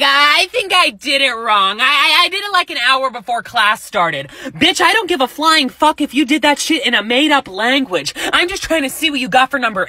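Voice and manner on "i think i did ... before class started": mocking a classmate. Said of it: "They would be like".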